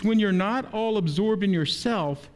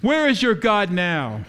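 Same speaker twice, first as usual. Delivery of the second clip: louder, slower taunting call; retold shout; 5 dB louder than usual. Man in the crowd mocking the dying boy, slow loud shout. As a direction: call it out slowly across a crowd. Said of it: "a man out in the crowd shouts".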